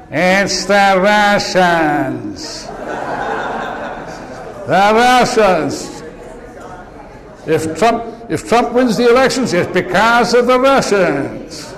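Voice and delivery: slow, heavy fake Russian accent, lightly done; mock Russian accent. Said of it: "Sorry about the accent".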